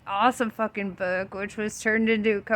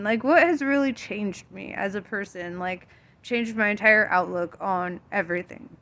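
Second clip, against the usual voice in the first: talking with hiccups; words broken by hiccups. Real, not acted. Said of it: "Sorry, I've got, like, the hiccups".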